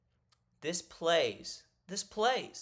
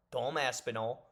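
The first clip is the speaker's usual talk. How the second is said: put-on a quick, half-hearted British accent on the name; tossing off a lightly mocked British accent; bad British accent; 4 semitones lower, 4 dB quieter than usual. A British name said in a jokey British accent. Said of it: "that's a horrible accent".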